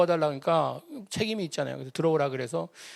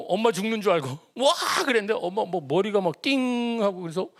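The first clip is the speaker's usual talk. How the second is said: ordinary talk, nothing marked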